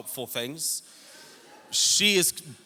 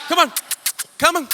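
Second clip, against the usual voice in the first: coaxing call again; 7 semitones higher, 3 dB louder, faster than usual. Retold or imitated. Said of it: "My wife is in the street going".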